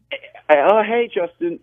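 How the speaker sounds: casual greeting. Retold or imitated. Stranger greeting the actor casually, offhand and familiar. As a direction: toss off a loose, familiar greeting. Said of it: "like this casually".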